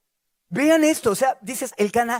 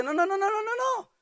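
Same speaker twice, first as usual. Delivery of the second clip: emphatic refusal; 9 semitones higher, 4 dB quieter than usual. Acted. Jesus firmly refusing the disciples.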